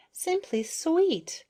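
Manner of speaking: very high, very slow coo; little bee cooing at the beetle's feelers, high and slow; cooing admiration. A narrator's reading. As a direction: gush over the feelers.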